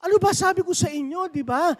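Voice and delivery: high, loud scolding from the angry coach. Retold or imitated. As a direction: tell the team off, furious. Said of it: "Galit na galit yung coach". (galit na sigaw ng coach)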